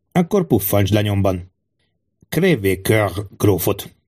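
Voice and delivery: lightly voiced king brooding on treachery; measured, suspicious monarch with deliberate pauses; distrustful king. King broods on betrayal, gives orders. (bizalmatlan király enyhén színezett, megfontolt hangja)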